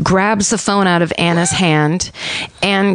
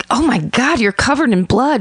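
higher-pitched imitation of shocked concern; retold startled exclamation; mock surprise; 5 semitones higher than usual. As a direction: act as if just noticing, lightly hammed up. Captor acting shocked, retold.

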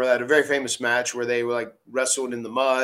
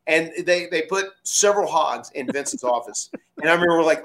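ordinary delivery

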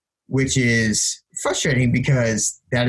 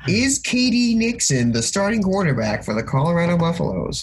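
higher, hyped radio host voice; shock jock radio host; 6 semitones higher than usual. Acted. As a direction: ham it up like talk radio. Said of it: "Let's pull on our shock jock voices".

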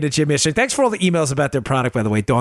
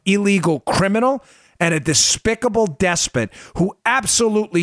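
fiery, scolding tirade; heated parliamentary debate; 2 semitones higher than usual. Real, not acted. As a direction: denounce them with rising fury. Host rants at supporters of surveillance.

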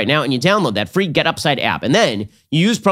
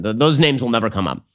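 ordinary delivery

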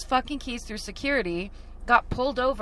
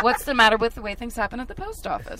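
light Seinfeld-style rising bit; lightly voiced Seinfeld observational lilt; comic hamming up a Seinfeld bit for friends, lightly voiced; Jerry Seinfeld impression; 3 dB louder than usual. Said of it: "Did he say it that way?".

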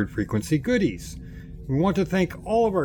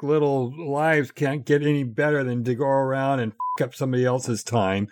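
mock rant. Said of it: "Jeff, take a Metamucil".

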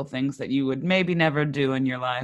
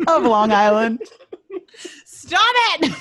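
giggles breaking through the words; laughing while trying to stay serious; trying not to laugh; 8 semitones higher, 5 dB louder than usual. Real, not acted. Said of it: "I'm trying to be professional".

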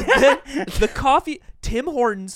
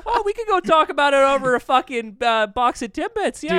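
nice Canadian businessman; 5 semitones higher, 3 dB louder than usual. Acted. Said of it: "four Canadian business men instead".

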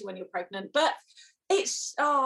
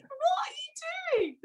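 half-laughing shout of disbelief; incredulous outburst. Retold or imitated. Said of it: "But it was like".

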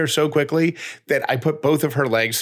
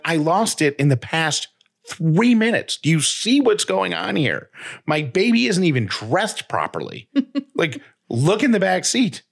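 higher, rising frustrated plea with a laugh; pitched-up, incredulous pleading; exasperated rant; 7 semitones higher than usual. Retold or imitated. Mom pleads with the garage attendant, high and exasperated. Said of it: "I'm like".

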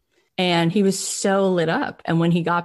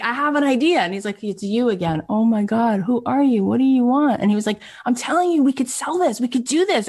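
excited; 7 semitones higher than usual. Retold or imitated. Brian pushing his idea on Ron, high and excited. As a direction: insist eagerly.

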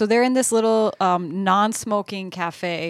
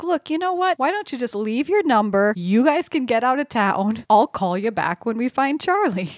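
retold Jack; 4 semitones higher than usual. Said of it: "And he's like".

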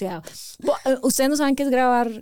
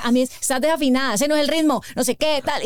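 curt mock producer. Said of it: "no les hablas como me hablas a mí".

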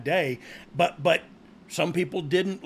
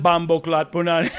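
put-on Jamaican accent; 5 dB louder than usual. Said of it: "saying bacon in Jamaican".

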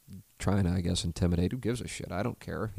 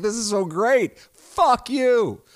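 much higher and louder, gleeful courtroom cheer; fired-up gloating; 8 dB louder, much slower than usual. Retold or imitated. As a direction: cheer like a fan watching the villain lose. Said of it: "'cause I'm like".

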